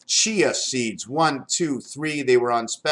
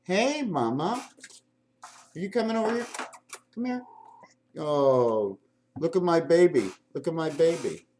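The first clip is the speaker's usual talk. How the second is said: cooing to cat. Real, not acted. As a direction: coo gently at the cat. Talking to his cat.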